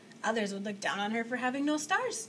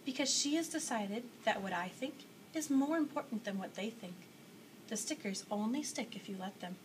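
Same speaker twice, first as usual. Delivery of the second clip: softly spoken. Acted. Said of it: "The maker spoke softly".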